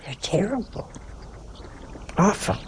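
hushed disapproving whisper; whispered aside. Acted. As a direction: lean in and whisper it. Aside about TV programs.

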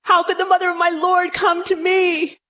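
a touch of a loud cry of joy; understated joyful outcry; mild cried out. Acted. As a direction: lightly cry out to Mary. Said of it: "she cried out in a loud voice".

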